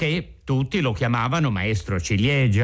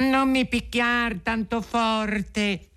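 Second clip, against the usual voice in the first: high, slow, tiny pleading voice; thin little voice, pleading; 10 semitones higher, slower than usual. A narrator's reading. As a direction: beg in a small high squeak. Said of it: "perché sentì una vocina sottile".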